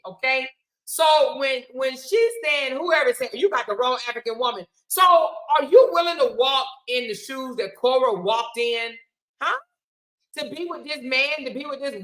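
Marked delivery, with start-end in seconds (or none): 3.3-8.6 shouting. Real, not acted. Heated shouting at commenters.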